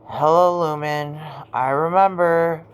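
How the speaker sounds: imitating an AI's even, unhurried delivery; lightly voiced flat-toned AI companion; Lumen's flat tone. Imitating how the AI greets and remembers, flat tone. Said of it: "her flat tone, like".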